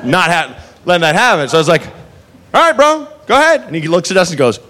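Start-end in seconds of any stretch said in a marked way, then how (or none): 2.5-3.6 mock encouraging. Egging on the busboy.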